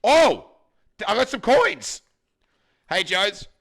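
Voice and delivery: loud, high hammed-up joy; mock delight. Streamer offering coins to Jones, hammed-up delight. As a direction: gush over the coins. Overjoyed finding coins in wallet.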